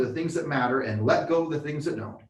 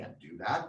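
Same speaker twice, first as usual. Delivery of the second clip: mock tone, heavily sarcastic delivery; 9 semitones lower, 10 dB quieter than usual. Acting out a reply to being told to say an affirmation: mock sarcastic tone. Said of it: "you sarcastically tell me".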